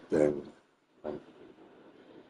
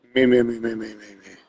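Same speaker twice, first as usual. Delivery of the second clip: higher, mocking sing-song of chatters; 6 semitones higher than usual. Streamer mimicking viewers who spam his chat, mocking. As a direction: parrot the whiny chat voices. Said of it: "they're like".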